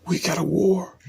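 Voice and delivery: "We got a war" whispered, unvoiced and intense; whispered repeat. Real, not acted.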